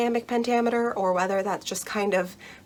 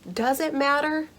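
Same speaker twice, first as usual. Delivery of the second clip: higher, puzzled voice of a confused reader; worried reader; 7 semitones higher than usual. Pretend. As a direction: ask it like a lost, anxious student. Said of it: "and you're wondering".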